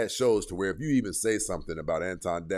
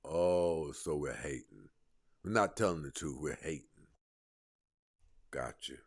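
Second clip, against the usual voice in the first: sarcastic muttering; 8 semitones lower, 8 dB quieter than usual. Real, not acted. Sarcastic mock agreement.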